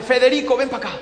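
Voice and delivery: an angry boss yells for his manager; calling out angrily. Acted. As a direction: summon him with a yell. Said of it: "¿Por qué gritas?".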